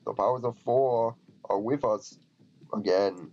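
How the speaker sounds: measured, mildly theatrical Viking line; lightly voiced Viking. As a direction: read it out as a game Viking. Reads the Viking's line in character.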